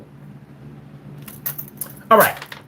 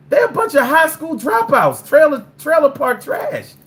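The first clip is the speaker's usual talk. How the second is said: ranting shout; 11 semitones higher than usual. Real, not acted. Ranting about rednecks.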